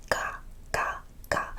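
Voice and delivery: each "ka" with a tense, unaspirated K; KA without air. Shown as a demonstration. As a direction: repeat "ka" with no puff of air. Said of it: "No air".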